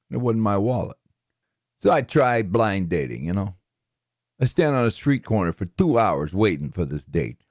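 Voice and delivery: lightly voiced New York one-liner comic; a hint of a put-upon New York comic; Rodney Dangerfield. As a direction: reel off self-pitying gags in a comedian's patter. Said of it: "let's do a couple of Rodney".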